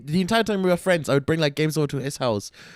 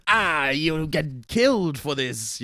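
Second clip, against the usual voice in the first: cartoon villain threat; much slower than usual. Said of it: "they're like".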